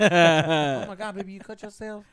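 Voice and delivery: a light put-on voice, drawn-out "Oh my God"; imitating the actress. Retelling the actress's words, a lightly put-on voice. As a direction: lightly mimic a caring actress fussing. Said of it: "that's what she talks".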